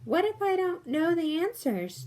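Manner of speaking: put-on high, worried toddler voice; a small boy fretting over the answers; nervous little kid. Chucky asks nervously if he can't answer. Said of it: "Chucky asked nervously".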